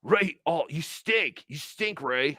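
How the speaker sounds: mock whiny scolding; petty heckling with swooping pitch; Chad. Host mimicking a comedian heckling his rival, mock whining. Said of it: "it's just Chad going".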